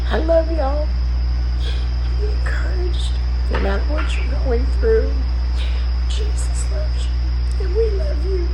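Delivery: high, loud tearful voice that keeps breaking; really crying while asking for prayers; upset and crying. Real, not acted. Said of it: "I'm sorry I'm upset on this video".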